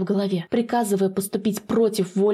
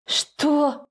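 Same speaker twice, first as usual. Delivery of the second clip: gasp of shock; 6 semitones higher than usual. Acted. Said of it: "охает Зела".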